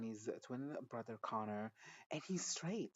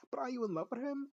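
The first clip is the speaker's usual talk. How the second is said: incredulous; 13 semitones higher, 3 dB louder than usual. Retold or imitated. Incredulous retort to the character.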